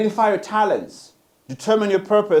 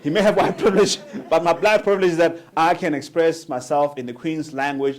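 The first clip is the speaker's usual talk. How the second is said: usual speaking voice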